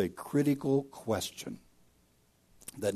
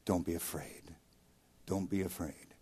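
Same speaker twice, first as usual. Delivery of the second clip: softer, hushed comfort to frightened friends; gentle reassurance; 4 semitones lower, 12 dB quieter than usual. Acted. Jesus calming the terrified disciples in the boat, softly reassuring. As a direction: soothe them quietly, like calming a scared child.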